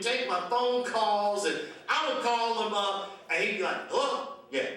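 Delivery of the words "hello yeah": bright, much higher cheerful hello, laughing; happy greeting. Retold or imitated. Drew delighted to hear from the comic, chirpy high greeting. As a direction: imitate a delighted friend picking up.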